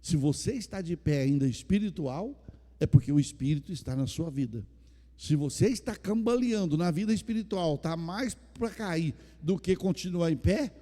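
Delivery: loud, fervent preaching to the church; full-force preaching. Acted. Pastor to his congregation, loud fervent preaching. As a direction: proclaim it loud to the whole congregation.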